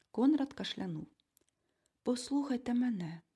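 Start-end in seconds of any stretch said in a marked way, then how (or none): none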